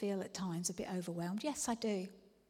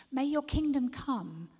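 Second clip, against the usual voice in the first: kingdom punched, louder and higher; bold declaration; 4 semitones higher, 5 dB louder than usual. Shown as a demonstration. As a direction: declare it boldly. Declared prayer.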